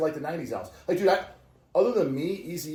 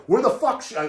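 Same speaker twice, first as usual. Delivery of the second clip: high, louder exasperated retort; mock outrage at being moved; higher mock angry complaint; retold annoyed protest; 10 semitones higher, 5 dB louder than usual. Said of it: "I'm like".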